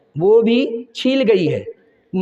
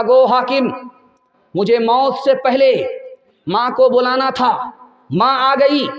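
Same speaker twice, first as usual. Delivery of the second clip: bitter accusation; 5 semitones higher than usual. Acted. Condemned son blaming his mother before the judge, anguished and raised. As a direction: let the son's grief and blame burst out.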